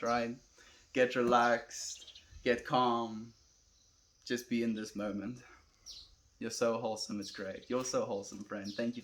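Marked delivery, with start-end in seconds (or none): 0.9-5.4 slow, drawn-out calming delivery; calming guidance. Real, not acted. Streamer guiding viewers to chill and be present, calming. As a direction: ease listeners down, unhurried.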